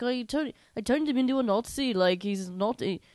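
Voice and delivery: mock Scottish accent, lilting up high then dropping. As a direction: imitate a whimsical Scotsman. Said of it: "Was he Scottish? Yeah, he's like".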